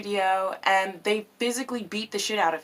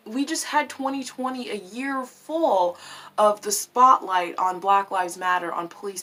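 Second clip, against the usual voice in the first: outraged protesters. Retold or imitated. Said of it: "people were like".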